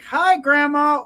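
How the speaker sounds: a high, bright, drawn-out hello; excited greeting. Acted. Red Riding Hood greeting Grandma at the door, excited and high. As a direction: sing out to Grandma, thrilled. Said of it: "She's like".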